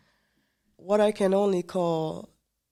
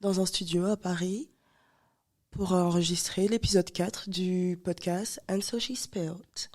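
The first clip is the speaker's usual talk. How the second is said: ASMR whisper. Shown as a demonstration. Guest whispers episode intro in French, ASMR style. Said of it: "That sounded like A S M R".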